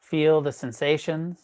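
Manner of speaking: measured meditation guide, long pauses between phrases; guided meditation. Real, not acted. Teacher guiding an online class into breath awareness, guided meditation.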